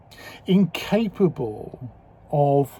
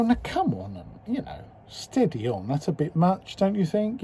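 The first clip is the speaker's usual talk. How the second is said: mock reassuring voice; 3 semitones higher, 5 dB quieter than usual. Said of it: "normally we go".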